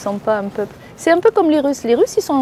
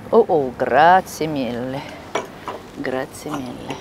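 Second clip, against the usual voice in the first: Italian thanks; 8 semitones lower, slower than usual. Real, not acted.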